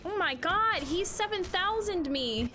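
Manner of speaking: high, loud disbelieving cry; shocked. Real, not acted. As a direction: yelp at the sudden damage. Huge hit taken in game.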